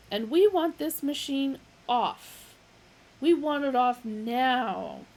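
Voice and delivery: loud, slowing to a demand; indignant declaration. Acted. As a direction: lay down the demand. Magic Thighs declaring.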